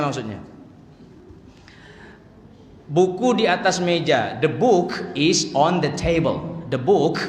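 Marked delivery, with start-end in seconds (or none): 4.4-6.6 the book is on the table, slowly with firm k and t; careful English pronunciation. Shown as a demonstration. Teacher models correct pronunciation of book and table, slow and precise. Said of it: "Pakai gini nih kalau belajar pronunciation". 6.7-7.2 the book with a firm final k; kaf in book. Shown as a demonstration. Teacher points out kaf in book, crisp final k. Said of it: "kaf itu".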